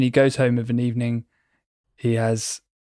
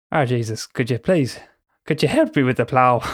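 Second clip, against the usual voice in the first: a mild put-on Irish lilt, laughing through it; a mock Irish farm boy begging his dad; Irish accent. Annoying son asks his father for help, in a light mock Irish accent. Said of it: "apologies to everybody for that accent".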